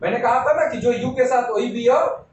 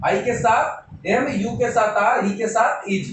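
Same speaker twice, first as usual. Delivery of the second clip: slow repetition; slower than usual. Shown as a demonstration. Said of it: "मैं बार-बार इसलिए बोल रहा हूँ".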